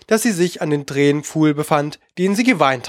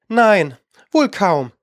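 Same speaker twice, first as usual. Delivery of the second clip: mildly placating, a little higher; coaxing; 4 semitones higher, slower than usual. A narrator's reading. Alice soothes the angry mouse, coaxing. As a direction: gently talk the angry one round. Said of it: "sagte Alice in zuredendem Tone".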